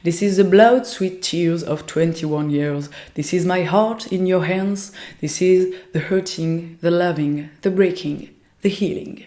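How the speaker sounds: slow, careful English with a strong French accent. Real, not acted. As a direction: read the poem slowly in French-accented English. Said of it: "vous pardonnerez mon accent anglais à chier".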